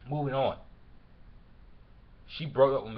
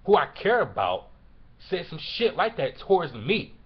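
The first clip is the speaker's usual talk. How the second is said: real anger, voice raised on key words; angry; 3 semitones higher, 5 dB louder than usual. Real, not acted. Venting about someone they cared about, angry. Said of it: "I'm just angry because a person".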